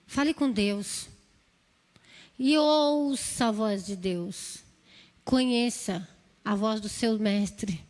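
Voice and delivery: slow, low, hushed exhortation; slow prayerful guidance. Real, not acted. Preacher guiding the congregation into prayer, slow and low. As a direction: lead them slowly into prayer.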